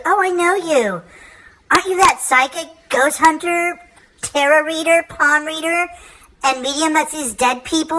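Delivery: high, breathless gushing lady. Retold or imitated. Coffee-shop lady recognizing the psychic, high gushing. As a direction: gush like a starstruck fan. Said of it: "she goes".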